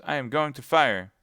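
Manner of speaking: shouted warning. Acted. Athos warns everyone he will fire, shouting. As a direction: bark it through the door.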